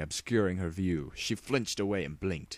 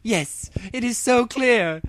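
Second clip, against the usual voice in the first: high, slow Princess Luna voice with a bark of laughter; a bark of a laugh, then savour the realization; 9 dB louder than usual. Acted. Luna to Rainbow Dash, suddenly seeing the answer, barking a laugh. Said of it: "barked a quick laugh".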